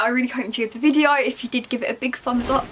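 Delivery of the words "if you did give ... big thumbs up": speaking through hiccups; interrupted by hiccups. Real, not acted. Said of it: "I had the hiccups there".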